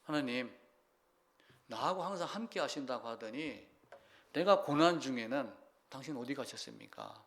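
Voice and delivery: soft, mildly acted complaint to God; quietly imitating someone let down; reproachful lament. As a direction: voice a subdued, questioning reproach. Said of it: "이렇게 원망을 해요".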